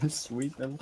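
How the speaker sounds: slow, soft creepy whisper of sweet little. Pretend. Friend mocks him for sounding creepy. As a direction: savor the words like a creep. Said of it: "you sound like a fucking pedophile".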